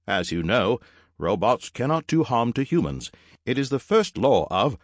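high-pitched robot reciting a rule; high robot butler voice; formal robot servant. Acted.

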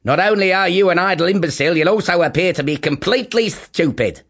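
fast, loud rant; furious mother. Acted. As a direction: tear into him. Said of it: "absolutely ballistic".

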